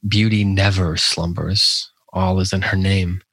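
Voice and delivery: measured, even poetry reading with pauses between lines; poem recitation. Acted. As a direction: recite the verse deliberately, letting each line settle.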